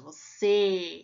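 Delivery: você, closed ê, voice going down; closed vowel demo. Shown as a demonstration. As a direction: drop the voice on você. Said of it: "eu falo pra baixo".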